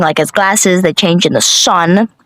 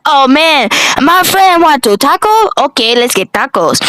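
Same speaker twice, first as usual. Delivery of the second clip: high Keith voice; 6 semitones higher than usual. Retold or imitated.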